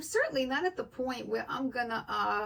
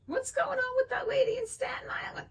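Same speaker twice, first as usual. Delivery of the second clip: high, breathy whispered question; whispered gossip, pitched up; whispered quote; 14 semitones higher than usual. Retold or imitated. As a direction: hush it like passing gossip. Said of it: "he says he talks to him".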